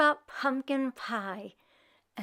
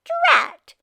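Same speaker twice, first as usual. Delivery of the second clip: high, annoyed witch snap; high, loud drat; witch's drat; 6 dB louder than usual. Acted. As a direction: spit it out like a cross witch. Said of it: "said the witch".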